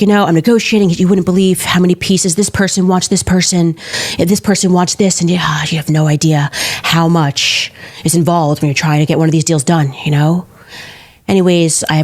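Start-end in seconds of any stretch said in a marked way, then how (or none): 0.0-10.5 Trump impression. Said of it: "why were you doing a Trump impression".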